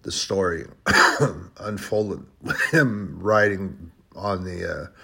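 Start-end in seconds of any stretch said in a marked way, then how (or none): 1.6-4.9 throat rough from coughing; after coughing. Real, not acted. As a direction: talk past a tickly throat. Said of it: "I am sorry about that".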